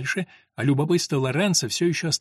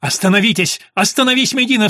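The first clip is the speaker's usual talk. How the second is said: much higher and louder cry; shouting stop; 7 semitones higher, 7 dB louder than usual. A narrator's reading. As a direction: yell to part two fighters. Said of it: "вскричал он".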